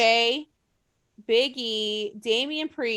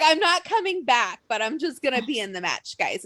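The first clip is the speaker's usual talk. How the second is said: mock wrestler promo. Wrestler quote, mocking voice.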